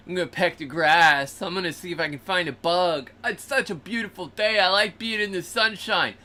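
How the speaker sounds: a hint of a carefree chick; happy chick voice. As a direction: chirp along as a content pullet. Voicing pullets in the yard.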